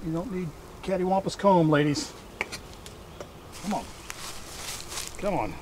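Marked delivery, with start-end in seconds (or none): none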